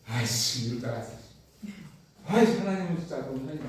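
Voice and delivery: grumbling under mild exasperation; sulky anger. Acted. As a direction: mutter a resentful complaint. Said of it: "화가 났어요". (투덜대며 짜증 내듯)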